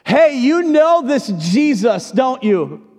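high, slow accusing question; accusing servant girl. Acted. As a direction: lean in and accuse him. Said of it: "a little servant girl comes up to him and says".

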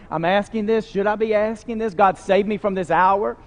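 tentative question to God, lifting at the close. Retold or imitated. Jesus asks God whether to be spared, questioning. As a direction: ask it as a question, rising at the end. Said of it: "asking this in question form".

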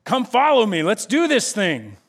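put-on rally the crowd with boyish eagerness; mock-heroic call to follow; eager rallying call. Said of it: "he's like".

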